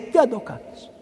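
ordinary talk

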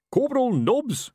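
high-pitched summoning call. Acted. Captain summoning the corporal from his office, calling out. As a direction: call sharply for your corporal from another room.

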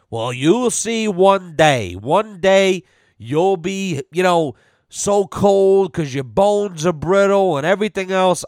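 put-on slow, lecturing old-timer; old person line. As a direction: drag it out like a know-it-all elder. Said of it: "most famous old person line ever".

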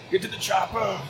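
high-pitched action-hero impression; Arnold. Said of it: "Arnold lied to us".

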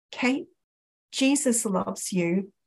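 soft, slow, sincere; tender retold message. Customer looking at the shop assistant, tenderly. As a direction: say it gently and slowly.

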